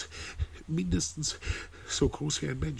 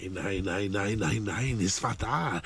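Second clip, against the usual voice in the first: rising urgent protest, faster at the end; agitated insisting; 2 semitones lower than usual. Acted. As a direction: insist desperately, voice climbing. Insists against halluzination claim.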